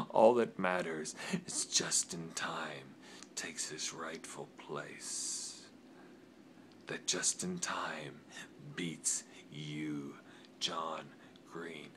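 gasp, then a hushed, zealous whisper; fervent whisper. Acted. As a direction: whisper the prophecy like a fanatic. Zealous prophecy to rival.

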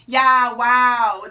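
loud, overdone small talk; fake enthusiasm. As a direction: cover the panic with a loud put-on cheer. Covering panic with fake enthusiasm.

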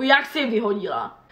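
ordinary delivery

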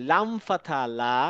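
slow teacher drill of লাম ফাথা লা; slow letter drill. Shown as a demonstration. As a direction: spell out লাম ফাথা লা slowly. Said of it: "কা।".

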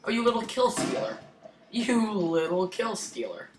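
high mocking taunt; teasing scold. Real, not acted. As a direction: taunt the kill stealer playfully. Teasing a kill stealer.

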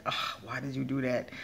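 milder self-reproach. Retold or imitated. Speaker retelling how she still questions herself, mildly exasperated. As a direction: lightly chide yourself under an "ugh". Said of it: "now I still be like".

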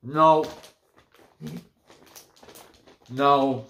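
talking while chewing; disgusted mid-bite; mouth full, chewing. Real, not acted. Seen 0: Put snack in mouth at -7, jaw working, grimacing while speaking.

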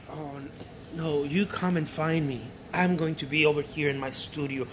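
quiet, falsely modest aside; mock modest brush-off. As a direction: play it down as if you don't care. Adult acting falsely modest.

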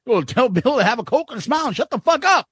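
usual speaking voice

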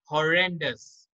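"Horrendous" repeated carefully, stress on REN; pronunciation model. Shown as a demonstration. Teacher repeating the word for students, careful "Horrendous". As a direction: say "Horrendous" clearly as ho-REN-dus. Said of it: "इसका जो pronunciation होगा".

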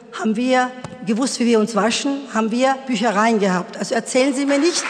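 forceful, indignant lecturing of the teacher; retold sharp retort. Mother snapping back at the French teacher, indignant. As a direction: push back hard, a bit too bold. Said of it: "etwas zu forsch und hab gesagt".

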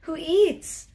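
high, drawn-out cooing. Real, not acted. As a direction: croon at the cat. Coos at the eating cat.

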